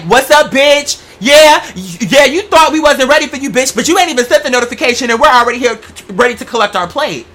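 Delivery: loud, high, hyped-up crowd hollering hello; hyped fan greeting. Retold or imitated. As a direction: holler it like fans already waiting at the door. Fans greeting her at show.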